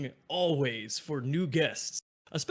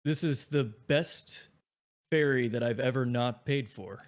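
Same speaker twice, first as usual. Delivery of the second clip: slow deadpan. Acted. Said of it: "slowly looks over and he says".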